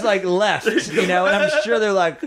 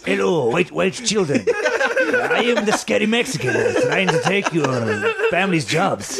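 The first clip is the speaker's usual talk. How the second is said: slightly higher mock Mexican villain; creepy Mexican character; 3 semitones higher than usual. Comic parodying the clip for white children, mock creepy voice. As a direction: play a hammed-up scary Mexican, laughing. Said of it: "He sounds creepy as shit".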